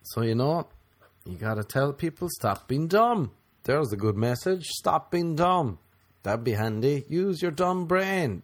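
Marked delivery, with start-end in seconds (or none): 2.3-3.3 mock preachy. Mock slow preachy message. 4.7-5.8 mock preachy. Repeats the slow preachy message. 7.1-8.4 high, slow, drawn-out scolding; high mock lecturing voice; mock preachy.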